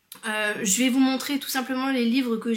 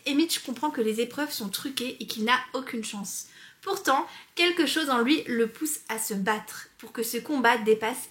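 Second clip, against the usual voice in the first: book blurb read. Acted. Reads the book blurb aloud.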